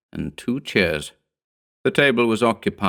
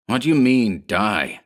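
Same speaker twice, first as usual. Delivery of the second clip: testy snarl. Acted. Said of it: "snarled Rigetti testily".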